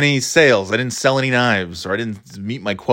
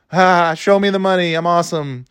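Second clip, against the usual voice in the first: higher, a mock cheer without conviction; higher, half-hearted mock cheer of the slogan; half-hearted mock yell; 5 semitones higher than usual. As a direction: pretend to hype yourself up, sarcastically. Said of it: "I think I did something like that".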